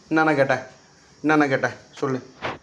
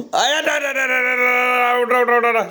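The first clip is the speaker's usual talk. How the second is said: high rattled-off cries of pain; pained pleading; 11 semitones higher, 4 dB louder than usual. Real, not acted. Parent in the child's grip begs release, high pained cries. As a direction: yelp repeatedly to be let go, high-pitched.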